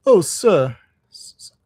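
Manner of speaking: loud, tearful appeal in character; acted fresh burst of tears; mock crying. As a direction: wail it as poor weepy Toad. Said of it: "crying afresh".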